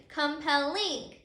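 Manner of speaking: slow, syllable-by-syllable "compelling", weight on final ing; stress on ING. Shown as a demonstration. Teacher showing where the accent moved, slow final-syllable stress. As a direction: stretch out "compelling" as com-pel-LING. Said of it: "your accented syllable is ing".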